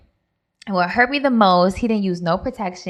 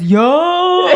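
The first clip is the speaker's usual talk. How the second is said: high, louder mock yelp of the punched boyfriend; pained yelp; 10 semitones higher, 7 dB louder than usual. Imitating the punched boyfriend's high yelp. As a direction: yelp like you just got hit. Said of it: "all you heard from him was".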